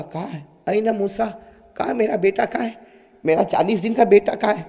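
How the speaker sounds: soft, worried mother's question; whisper-like plea for the child; anxious hushed asking. Acted. Mother quietly asks for baby. (آہستہ پریشان ماں)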